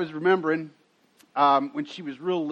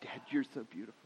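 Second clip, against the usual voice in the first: little daughter copying; 6 semitones lower, 12 dB quieter, much faster than usual. Retold or imitated. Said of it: "She'd go".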